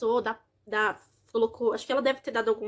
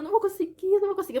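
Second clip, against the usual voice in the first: imitated despair; 7 semitones higher, faster than usual. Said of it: "eu falava".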